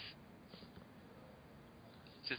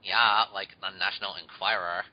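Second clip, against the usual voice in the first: put-on lightly done Valley Girl accent. Shown as a demonstration. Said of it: "Thank you, Stan".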